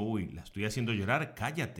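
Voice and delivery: soft low self-warning. Retold or imitated. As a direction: drop to a hushed inner voice. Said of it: "Porque digo".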